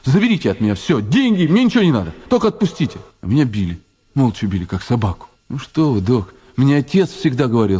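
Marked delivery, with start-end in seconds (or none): 0.1-3.0 rising desperate plea; pleading. Retold or imitated. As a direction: beg them to let you go. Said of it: "что однажды им сказал". (умоляюще)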